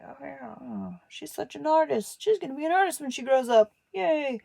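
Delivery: high, loud cheery praise; mock admiring classmates. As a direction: gush like kids praising the class artist. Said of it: "Everybody would be like".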